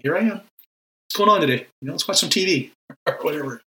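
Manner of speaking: lightly voiced, easygoing visitor; a hint of a friend dropping by; casual Jesus. Preacher voicing Jesus casually hanging out, lightly.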